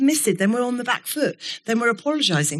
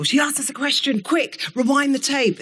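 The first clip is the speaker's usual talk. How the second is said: higher, hammed-up alarm of the dads; mock panic; 6 semitones higher than usual. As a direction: jump up in pitch like caught-out dads scrambling.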